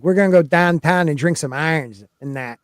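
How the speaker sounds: broad Pittsburgh Yinzer accent, hammed up. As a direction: lay on a thick Pittsburgh accent. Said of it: "I'll start doing Pittsburgh".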